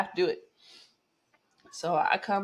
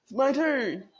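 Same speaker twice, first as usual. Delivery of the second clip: it's my turn, said higher with a falling end; mock eager, higher; 8 semitones higher than usual. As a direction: sing out your turn with a little triumph. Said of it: "I'm over here".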